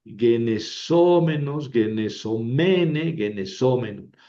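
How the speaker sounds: Greek participle forms drawn out slowly; slow paradigm recitation. Shown as a demonstration. (recitación lenta de formas griegas)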